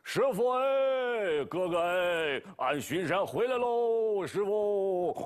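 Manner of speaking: long drawn-out hail to the master; calling out. Acted. Bajie comes down the hill hailing the master, drawn out. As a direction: call from afar, stretching 师傅哎 slowly. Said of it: "一边喊".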